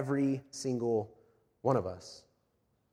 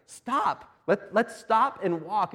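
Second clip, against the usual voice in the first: pleading dad; 6 semitones higher, much slower than usual. Retold or imitated. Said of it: "I'm like".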